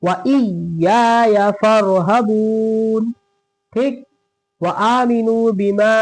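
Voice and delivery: slow, drawn-out melodic recitation; Quran recitation. Shown as a demonstration. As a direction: chant each word slowly and evenly.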